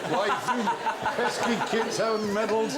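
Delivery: cartoon villain voice; hammy baddie unmasked, laughing; Scooby-Doo villain.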